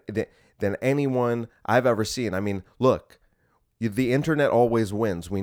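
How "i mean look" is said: whisper. Real, not acted. Aside in unvoiced whisper.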